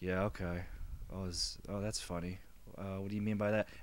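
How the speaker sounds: soft, flat, toneless deadpan monotone. Showing the voice he uses so people get no reaction: monotone voice. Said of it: "I've been doing my monotone voice a lot lately".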